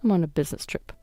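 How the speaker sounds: resentful man grumbling sarcastically; snide husband. Acted. Husband sneers at sick wife.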